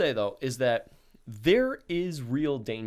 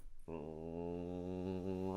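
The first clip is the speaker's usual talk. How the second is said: imitated car engine; 6 semitones lower, 13 dB quieter than usual. Imitates car creeping in first gear.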